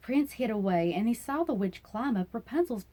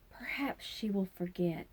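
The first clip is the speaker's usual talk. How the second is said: husband's thought; 5 dB quieter than usual. A narrator's reading. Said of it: "the husband thought".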